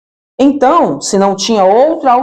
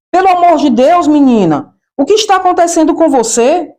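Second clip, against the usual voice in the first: alarmed aunt; 6 semitones higher, faster than usual. Retold or imitated. Aunt sees the niece's red bob, shocked outcry. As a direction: cry out in alarm at the red hair. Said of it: "deu outro grito".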